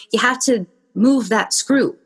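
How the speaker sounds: lightly voiced Irish man; a hint of a calm Irish stranger; Irish accent. Irish stranger advising about the screw, light Irish accent. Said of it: "He's Irish".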